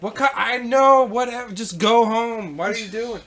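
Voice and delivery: fed-up cop shooing him home; frustrated police. Retold or imitated. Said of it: "in their voice is like".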